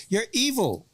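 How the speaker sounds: mock outrage. Cohosts mock quarrel.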